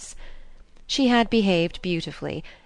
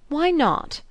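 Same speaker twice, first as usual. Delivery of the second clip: sharp, much higher and louder challenge; argumentative; 10 semitones higher, 4 dB louder than usual. A narrator's reading. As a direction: cut in, suddenly spoiling for a fight. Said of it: "broke in her son, growing suddenly argumentative".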